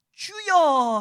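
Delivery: high, loud cry of 주여; crying out to God. Shown as a demonstration. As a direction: cry out 주여 from the heart. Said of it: "하면서 막 부르짖을 수밖에 없는 거죠". (높고 크게 부르짖는 "주여!")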